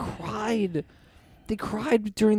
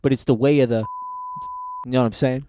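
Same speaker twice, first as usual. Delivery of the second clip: put-on Hispanic accent; 5 semitones lower than usual. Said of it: "Why are you doing a Hispanic voice?".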